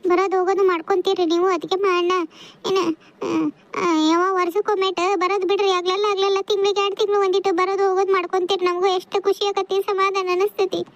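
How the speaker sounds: high, tearful pleading. Acted. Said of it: "ಅಳಬಾರ್ದವ್ವ".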